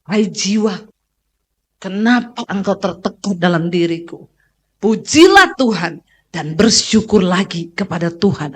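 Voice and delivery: speaking to your soul. Shown as a demonstration.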